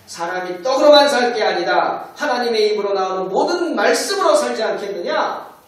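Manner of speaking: 단호하게 꾸짖는 목소리; rebuking. Retold or imitated. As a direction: stand up to the devil with authority. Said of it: "대적합니다".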